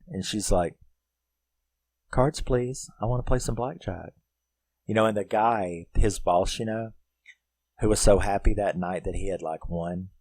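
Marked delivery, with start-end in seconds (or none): 2.1-4.1 lightly put-on higher woman's voice; voicing the woman. She asks the dealer for cards, lightly voiced higher. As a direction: imitate her asking, pitched up.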